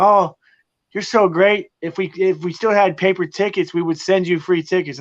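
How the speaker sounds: chipper customer service voice. Retold or imitated. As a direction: play the overly polite team rep. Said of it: "they're like".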